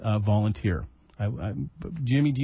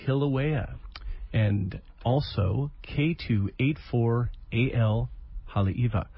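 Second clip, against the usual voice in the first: radio voice. Real, not acted. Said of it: "I'm a little rusty with the old radio voice".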